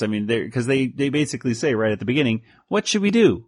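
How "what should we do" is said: cartoon voice. Quoting cartoon characters.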